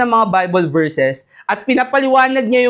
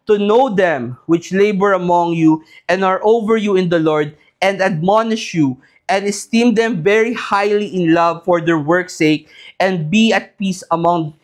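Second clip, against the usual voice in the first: scripture reading; 4 semitones lower than usual. Real, not acted. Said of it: "Sabi ng Bible sa First Thessalonians five twelve".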